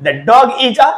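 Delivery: very slow and deliberate; slow teacher's correction; slow corrected sentence. Shown as a demonstration. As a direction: spell out the right version slowly. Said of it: "তার জন্য এখানে আমরা দেয়া ব্যবহার করব".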